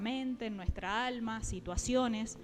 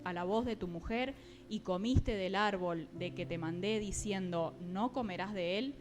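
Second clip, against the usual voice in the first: measured, deliberate Bible reading; scripture reading. Acted. Preacher reads Genesis to the congregation, deliberate scripture reading. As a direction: read the verse out clearly, phrase by phrase.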